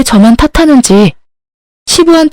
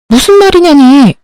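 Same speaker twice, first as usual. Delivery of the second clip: higher-pitched indignant comeback; exasperated retort; 6 semitones higher than usual. Acted. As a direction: fire the husband's question back at him. 아내가 남편 질문에 발끈함. (발끈하며 되받아치기)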